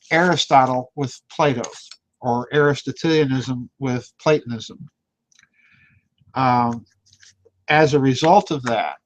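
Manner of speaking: talking around a cigarette in his mouth. Real, not acted. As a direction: lips holding a cigarette while speaking. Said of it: "pardon me while I talk with my cigarette in my mouth".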